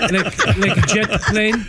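put-on slow, halting foreign accent; searching for words in an accent; broken-English accent. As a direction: explain slowly in imitated broken English. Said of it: "in broken English".

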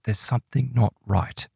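ominous confiding. Retold or imitated. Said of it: "she leans in to William".

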